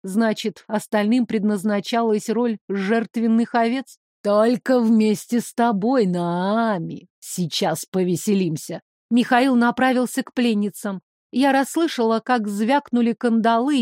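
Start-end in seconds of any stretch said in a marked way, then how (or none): 4.2-8.8 ниже, злорадно предвкушая; предвкушать расправу; злорадный злодей. Acted. (злодей злорадно обещает)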